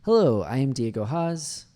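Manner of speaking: slow model sentence with a big lift on HELLO; voice going up. Shown as a demonstration. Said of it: "hear my voice go up".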